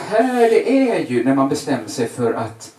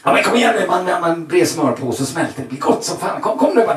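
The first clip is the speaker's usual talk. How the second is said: coaxing; 3 semitones higher, 3 dB louder than usual. Retold or imitated. Father coaxing the kids.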